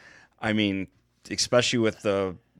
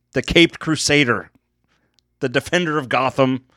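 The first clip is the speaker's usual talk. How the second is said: boxing ring announcer. Acted. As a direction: hype the fighters to the crowd. Introducing fighters like ring announcer.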